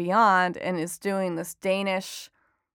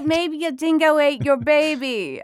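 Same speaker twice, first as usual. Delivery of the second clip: mock Australian accent, pitched high and louder; Elaine from Seinfeld; 7 semitones higher, 4 dB louder than usual. Author quotes a sitcom line about a dingo, in a mock Australian accent. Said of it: "Elaine from Seinfeld".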